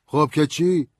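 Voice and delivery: put-on high, loud drunk voice; hostile drunk. A narrator's reading. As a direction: eye the stranger with distrust. Drunk lawyer objecting.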